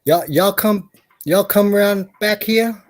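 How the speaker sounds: put-on a playful Southern hick accent. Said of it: "hard is a Southern accent".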